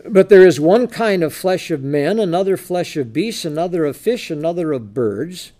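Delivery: strong opening, easing through the list; preacher reading aloud from the Bible; scripture reading. Acted. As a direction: read the verse as a measured list.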